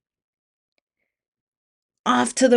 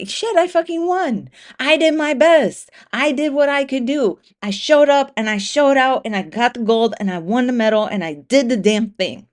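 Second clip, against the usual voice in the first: thrilled winner; 3 semitones higher than usual. Pretend. Runner who just won the race, excited. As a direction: crow over the win with real joy.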